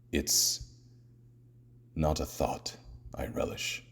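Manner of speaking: hushed, halting admission; reluctant. Acted. Batman on planning against his friend Diana, quiet and reluctant. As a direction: say it softly, with long reluctant pauses.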